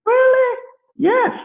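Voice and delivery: very high, loud disbelief; surprised. Retold or imitated. Prospect shrieks really, coach confirms high and loud. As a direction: shriek it in mock amazement.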